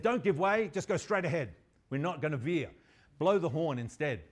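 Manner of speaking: mildly hammed-up captain's command; captain's order. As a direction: call out orders to the crew. Acting captain ordering his crew.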